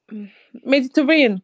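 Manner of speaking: a quick try at Mediterranean in an English accent. Shown as a demonstration. Friends dare her to say it in an English accent. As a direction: rush Mediterranean out in an English accent, barely changed. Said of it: "you just say it in an English accent".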